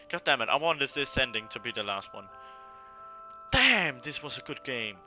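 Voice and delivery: ordinary talk, nothing marked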